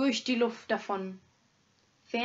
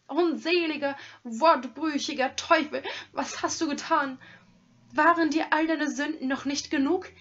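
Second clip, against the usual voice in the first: higher, louder tearful scolding; distraught rage; 4 semitones higher, 4 dB louder than usual. Acted. Hermit accusing the robber of the killing, tearful and furious. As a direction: rail at him, beside yourself. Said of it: "außer sich".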